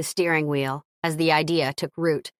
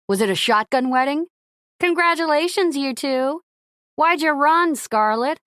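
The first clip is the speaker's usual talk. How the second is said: shouting reporters; 7 semitones higher than usual. Acted. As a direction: call out over a crowd.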